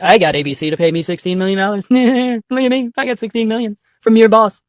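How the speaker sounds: a lightly voiced bragging Trump; bragging Trump mockery. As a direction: gloat like a smug bully. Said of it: "he immediately goes to bragging".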